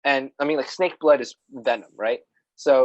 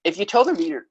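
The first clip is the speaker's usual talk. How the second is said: voice cracking; 5 semitones higher, faster than usual. Real, not acted. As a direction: voice cracks mid-phrase. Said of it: "oh, voice crack".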